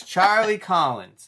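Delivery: Joker drawl. Retold or imitated. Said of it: "He goes".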